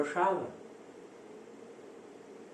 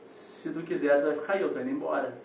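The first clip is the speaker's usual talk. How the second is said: lower, quick, offhand parent, lightly voiced; unmoved mother; 4 semitones lower than usual. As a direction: lightly imitate a mother calmly threatening to leave. Mother's unmoved threat to leave.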